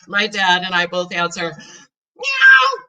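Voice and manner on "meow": high loud meow; cat meow. Acted. Cat meowing in the kitchen, high meow. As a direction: mew sharply.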